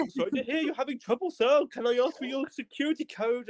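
high-pitched Indian call-centre agent; politely singsong Indian accent, pitched high. Retold or imitated. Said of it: "it's some Indian person speaking".

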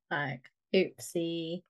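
hushed sheepish whisper, slow. Real, not acted. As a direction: breathe the oopsie out, embarrassed. Awkward slip, sheepish aside.

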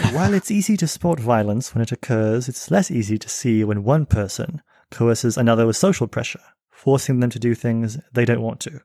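put-on reading his essay aloud in a light English accent; a touch of a British reading voice. Guest reads his essay to the host in a light English accent. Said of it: "I could read it in English accent".

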